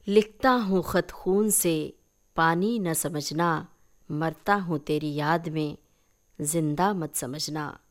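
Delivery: slow, lingering recitation of a couplet; recited love verse. A narrator's reading. Narrator reciting the lover's letter verse, slow and lingering. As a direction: read the letter's verse slowly like a poem.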